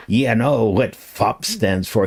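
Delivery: lightly imitated Scottish accent. Quoting his friend the Druid, light Scottish accent. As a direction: quote him with a touch of Scots. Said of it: "He had a really strong Scottish accent".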